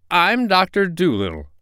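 high, confident announcement mimicking another person; Doctor Dolittle. A narrator's reading. Parrot imitates the doctor to fool the king, high announcement. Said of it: "just the way the doctor would have said it".

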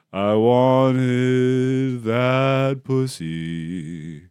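very slow, drawn-out mock farewell; hammed-up slow lament of the dead tourist. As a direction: drag each word out like a dying man's regrets. Voicing dead man's last thoughts.

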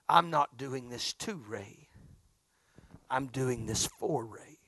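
slow, breathless whisper; hushed, slow whisper of a quiet vow. Retold or imitated. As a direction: lean in and whisper it slowly. Quoting friend's resolve, hushed.

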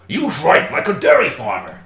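light pirate voice. Acted. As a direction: growl it like a pirate. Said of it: "I'll put my pirate voice back on".

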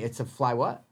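wait, a fly WHAT?; puzzled query. Real, not acted. Questioning a pronunciation.

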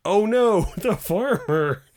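high, loud hammed-up alarm; mock scared rabbit. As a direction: cry out in mock dread, drawn out. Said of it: "scared rabbit. He's saying".

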